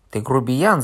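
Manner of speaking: loud, indignant cry; shouting. Acted. Fat man shouting at rude Korneev, indignant cry. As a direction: hurl the insult loudly. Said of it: "закричал толстый".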